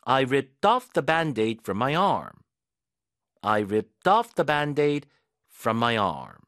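very slow, "off" stressed. Shown as a demonstration. Teacher's stress guide on the tag sentence. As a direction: drill "off" slowly with the stress. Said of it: "강세 가이드 해드릴게요".

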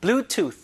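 Bluetooth modelled with a clean final th; teacher's careful Bluetooth, no vowel after th; th sound demo. Shown as a demonstration. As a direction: end Bluetooth tongue between teeth. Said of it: "공기를 막아야 돼요".

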